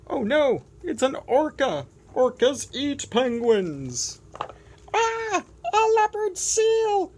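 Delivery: high, loud, frantic squeals; panicked penguin. Acted. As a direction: shriek at every new predator. Penguin meets predators, panics.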